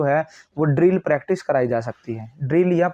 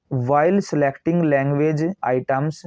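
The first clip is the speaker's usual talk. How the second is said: slow textbook reading; much slower than usual. Acted. Reads the English text slowly.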